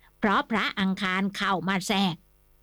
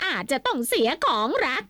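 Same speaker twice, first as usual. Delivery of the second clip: higher, lady's voice quoting "อาจจะต้องเสียของรัก"; wife's voice; 4 semitones higher than usual. A narrator's reading. Wife quoting the fortune teller to her husband, higher voice. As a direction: repeat the omen as the fretful wife.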